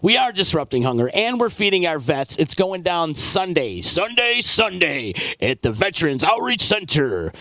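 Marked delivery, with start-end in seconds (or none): 2.4-7.3 booming monster truck announcer. Acted. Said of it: "that was my monster truck voice".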